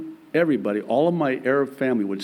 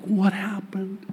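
concerned dad; 7 semitones higher, slower than usual. Retold or imitated. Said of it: "I'm like".

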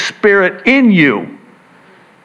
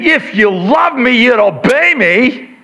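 mom's misreading; 6 semitones higher than usual. Shown as a demonstration. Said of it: "He's saying it like this".

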